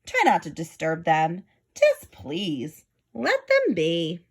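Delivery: lightly voiced earnest elephant; sincere plea. Horton pleads for the tiny family, mild sincere plea. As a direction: gently beg them to leave it be. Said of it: "said Horton".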